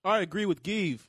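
suddenly loud, sharp answer. Real, not acted. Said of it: "Why are you yelling at me?".

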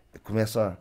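ordinary talk, nothing marked

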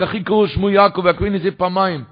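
high, loud anguished shout; outcry. Acted. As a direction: cry out that he was cheated twice. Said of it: "אז הוא צעק".

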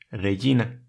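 regina with a soft G like Y; soft Latin G. Shown as a demonstration. Showing soft G before I. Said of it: "Se lee como una Y".

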